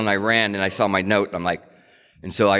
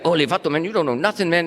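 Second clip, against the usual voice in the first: high, mocking street voice; imitating a swaggering dealer, pitched way up; hammed-up tough talk up high; tough guy impression; 9 semitones higher than usual. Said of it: "and I would do things like".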